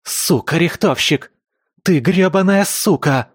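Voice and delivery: high, loud screaming curse; enraged scream after the failed kill; furious scream. A narrator's reading. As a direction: scream it in rage. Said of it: "вопила отскочившая от меня белка".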